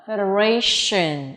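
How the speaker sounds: "federation" with sh in the last syllable; slow demo of "federation", ending in shin; sh sound. Shown as a demonstration. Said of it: "âm sh".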